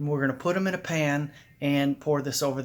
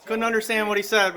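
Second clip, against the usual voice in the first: laughing while talking; chuckling through words; 7 semitones higher, 6 dB louder than usual. Real, not acted. Laughing at friend's mumble.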